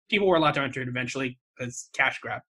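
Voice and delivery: quick, cynical aside. Real, not acted. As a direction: toss it off with dry cynicism. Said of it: "I sound so cynical".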